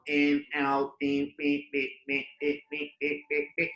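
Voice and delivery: soft, even monotone beats; rhythmic stroke counting. Shown as a demonstration. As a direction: tick off each little stroke in rhythm. Chanting along with pen strokes.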